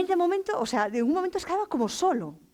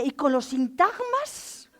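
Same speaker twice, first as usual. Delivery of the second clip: pedantic; 2 semitones higher, slower than usual. Retold or imitated. Lo mayor que soy.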